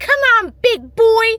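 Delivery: put-on very high-pitched, very loud small-child voice. Quoting a little kid urging someone on: small child's voice. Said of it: "I sound like Elmo, but I like I just imagine this in in the voice of a small child".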